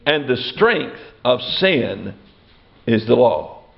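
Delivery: low, slow recitation of the verse; measured scripture reading. Real, not acted. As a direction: read the verse gravely, slowing right down.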